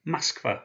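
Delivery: Moskva said mask-VA, first O as an A; Russian word Moskva. Shown as a demonstration. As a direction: stress the second syllable of Moskva. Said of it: "the second syllable is one that's stressed".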